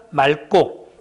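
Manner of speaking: 맑고 said 말꼬, with ㄹ and tense ㄲ; standard pronunciation. Shown as a demonstration. Teacher answers the exam question, demonstrating 맑고 as 말꼬. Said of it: "그 다음 말은 뭐 됩니까".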